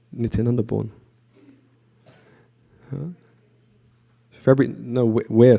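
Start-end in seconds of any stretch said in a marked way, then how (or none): 5.1-5.6 WHERE repeated more firmly after a stumble; re-say WHERE clearly to fix a mishearing; clarified pronunciation. Real, not acted. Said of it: "sorry, my accent".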